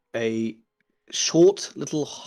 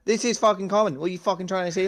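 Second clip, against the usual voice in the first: high, indignant halfling in Irish-Scouse; wobbly Irish accent sliding into Scouse; Irish turned Scouse; 7 semitones higher than usual. Acted. Halfling confronts Oberon about speaking Common, indignant Irish-Scouse. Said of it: "it just rapidly became Scouse".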